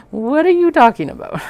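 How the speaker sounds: hammed-up mock outrage; exasperated disbelief. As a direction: throw up your hands at the fabric. Fabric argument voiced out loud.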